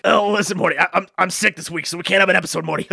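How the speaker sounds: a hint of Rick, stuttering; lightly voiced mad scientist; Rick Sanchez voice. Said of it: "this is my sick voice".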